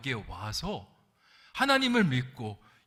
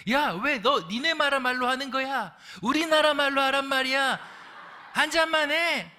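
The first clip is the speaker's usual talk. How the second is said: much higher, louder mock shouting; angrier senior; 11 semitones higher, 6 dB louder than usual. Senior worker yelling at the newcomer, hammed-up fury. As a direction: blow up in a hammed-up rage. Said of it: "더 화를 내면서".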